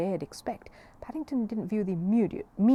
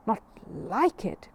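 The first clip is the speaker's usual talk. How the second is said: incredulous question; 2 semitones higher, 4 dB louder, much slower than usual. Acted. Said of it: "cried the man".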